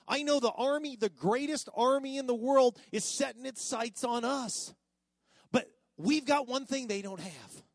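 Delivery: loud rousing speech; rallying cry. Retold or imitated. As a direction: fire up the troops. Moses rallying the people.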